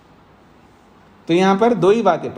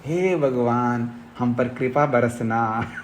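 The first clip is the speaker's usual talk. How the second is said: slow, softer, sanctimonious plea to God; mock pious prayer; 4 semitones lower, 4 dB quieter, slower than usual. Preacher mimics a devotee begging God for grace, slow soft plea. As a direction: draw out the prayer like a devotee hiding his faults. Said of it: "कैसे प्रार्थना करते हैं?".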